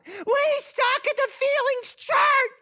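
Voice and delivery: high-pitched, drawn-out screech; mock scream. Wife blowing up at husband in counseling, screaming. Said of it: "Tammy just screams out".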